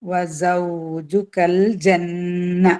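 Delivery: slow, measured teaching recitation; drawn-out model recitation for pupils; Quran recitation. Shown as a demonstration. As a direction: recite slowly with long held sounds. Recites the verse being taught.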